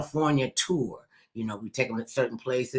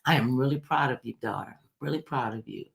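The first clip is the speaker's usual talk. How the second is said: a proud mother's quiet blessing; mother quietly praising her daughter, tender; tender mother's praise; 2 semitones lower, 4 dB quieter than usual. Retold or imitated. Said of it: "she said to me".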